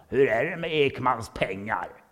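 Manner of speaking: a colleague challenging with a loaded question; skeptical colleague. Acted. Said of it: "någon i Sverige som". (kollega ställer misstänksam fråga, långsamt och högre)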